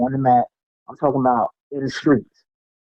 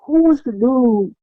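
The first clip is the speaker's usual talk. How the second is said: higher, slower, eager yo; eager question; 9 semitones higher, slower than usual. Retold or imitated. Asking the man at the shelter, eager and raised. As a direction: press him to name the fighter. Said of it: "I said".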